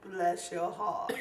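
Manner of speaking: slow, laughing bless your heart; teasing laugh. Real, not acted. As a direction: drawl it out fondly with a chuckle.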